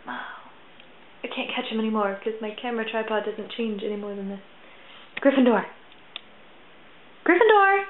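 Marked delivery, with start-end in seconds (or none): 5.2-7.8 calling out. Real, not acted. Calling the cat.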